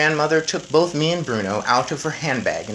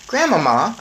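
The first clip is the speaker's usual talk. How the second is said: put-on boy voice; 7 semitones higher, 6 dB louder than usual. A narrator's reading.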